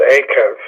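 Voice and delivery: akev with the first syllable stressed; akev, stressed up front and falling away. Shown as a demonstration. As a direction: lean on the opening "a" of akev. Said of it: "that's the syllable that you're gonna stress".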